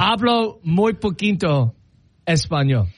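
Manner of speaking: put-on slow, American-accented "Hablo muy poquito español"; gringo accent Spanish. Admitting weak Spanish to the server, slow American accent. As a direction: apologize slowly in a heavy American accent. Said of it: "in, like, my white English speaking accent".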